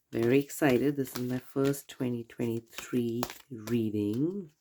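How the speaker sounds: stuffy nose from a cold; nasal cold voice. Real, not acted. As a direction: talk through a congested nose. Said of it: "in my nasally cold voice".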